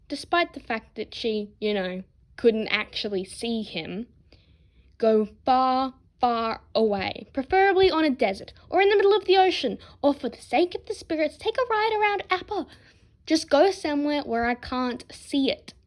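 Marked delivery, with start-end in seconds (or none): 5.0-15.7 louder, higher, building to a fast high shout; exasperated girl shouting at the boys; yelling them off. Acted. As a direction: chase them away with rising volume. Toph yells boys away.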